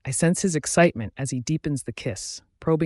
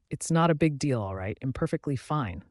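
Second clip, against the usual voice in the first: flat. Acted. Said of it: "I say flatly".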